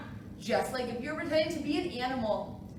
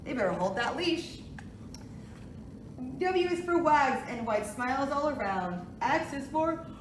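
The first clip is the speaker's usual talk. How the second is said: sing-song picture book reading; reading to a toddler; 5 semitones lower than usual. Acted. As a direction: read it gently to little kids. Reads alphabet book aloud.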